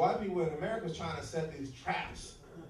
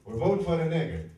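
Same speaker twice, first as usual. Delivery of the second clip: husband's loud answer; 9 dB louder than usual. Retold or imitated. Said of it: "He looked up and he goes".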